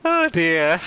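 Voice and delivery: recovering from a fit of giggles; laughing. Real, not acted. Streamer trying to recover from giggles, laughing. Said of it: "Now I'm laughing".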